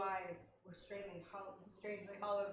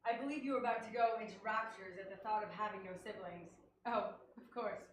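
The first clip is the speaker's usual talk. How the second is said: put-on English accent; 4 dB louder than usual. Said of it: "In an English accent".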